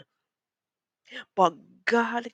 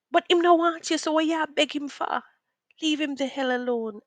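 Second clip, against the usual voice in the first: scolding herself; 8 semitones higher, 3 dB louder than usual. Retold or imitated. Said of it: "I was like".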